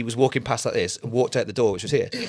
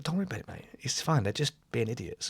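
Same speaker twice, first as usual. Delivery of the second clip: softly played-down comfort; reassuring; 10 dB quieter than usual. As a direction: quietly settle a worried kid. Retold reassurance to worried child.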